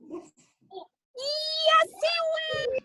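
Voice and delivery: high, bursting out for the pop-up; spring up with the words; excited pop. Acted. Jack pops up.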